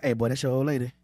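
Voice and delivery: low mock embarrassing uncle; lightly voiced tipsy uncle at a cookout; booming tipsy uncle. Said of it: "that embarrassing uncle that you got that be walking up to you like".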